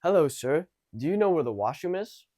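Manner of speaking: projected, punchy greeting. Shown as a demonstration. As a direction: lift the volume on a polite question. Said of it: "I would speak a bit louder".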